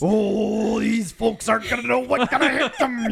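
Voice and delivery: mock corny dad. Teasing a host's joke build-up, mock corny dad. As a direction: tease him like a smug dad.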